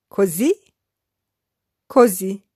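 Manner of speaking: Così and così said apart with a pause between; syllabified. Shown as a demonstration. Teacher splitting Così così for beginners. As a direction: split Così così into separate parts. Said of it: "I will syllabify each sentence".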